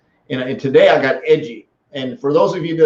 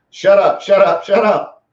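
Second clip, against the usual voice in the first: angel on the shoulder; 5 semitones higher, 4 dB louder than usual. Retold or imitated. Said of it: "my angel on his shoulder was going".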